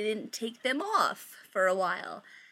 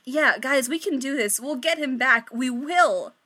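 unconvincing cheer; 3 semitones higher, 4 dB louder than usual. Acted. Victoria reassuring her friends with hollow, forced cheer. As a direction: push through fake confidence. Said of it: "most unconvincing smile ever".

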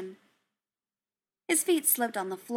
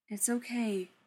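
steady; 4 dB quieter than usual. A narrator's reading. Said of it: "and his voice was steady".

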